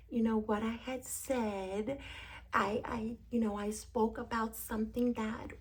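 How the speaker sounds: lightly attempted Southern accent; improper, half-done Southern accent; the speaker's Southern accent. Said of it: "now she has a Southern accent".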